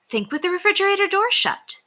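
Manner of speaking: high, smiling mother's suggestion; amused mom nudging her son to close the fridge; with a smile. A narrator's reading. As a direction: tease him gently with a smile. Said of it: "suggested Miss Huggins with a smile".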